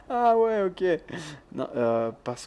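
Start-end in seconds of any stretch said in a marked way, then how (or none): 0.1-0.8 ah ouais soudain, plus haut et fort; lâche un ah ouais étonné; surpris. Real, not acted. Réaction soudaine, compréhension. (surprise soudaine, voix haute et forte)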